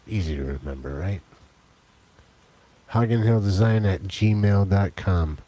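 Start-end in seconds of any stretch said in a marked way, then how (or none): 2.9-5.4 slow, loud, spelled-out delivery; slow clear dictation. Shown as a demonstration. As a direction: say it slowly so they can write. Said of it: "Write it down".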